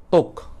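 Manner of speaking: "Talk" said as "tok", no L sound; "Talk" with the L left silent. Shown as a demonstration. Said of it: "L-nya tak dibaca".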